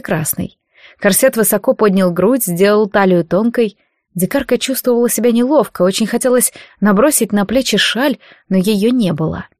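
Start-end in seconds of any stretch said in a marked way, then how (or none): none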